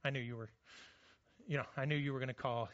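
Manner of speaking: low, quick, easygoing reply; lightly voiced God, relaxed and knowing; casual God. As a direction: answer like God already knew. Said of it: "And he's like".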